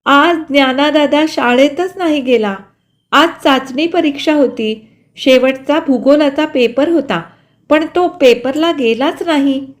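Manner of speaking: put-on a child reporting through tears; voiced girl near tears; tearful girl. A narrator's reading. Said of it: "रडत सुरेखा म्हणाली".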